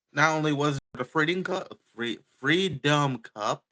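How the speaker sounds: talking while chewing; words round a bite of candy. Real, not acted. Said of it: "Sorry, I'm chewing on something".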